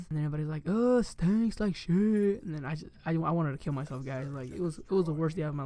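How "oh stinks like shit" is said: higher, stretched-out mock disgust; imitated disgusted classmates. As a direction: mimic kids groaning at a stink, very slowly. Whole class reacts to smell.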